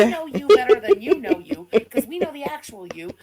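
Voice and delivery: loud declaration; shouting. Real, not acted. Cohost shouting at the streamer, loud. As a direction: shout it right at her.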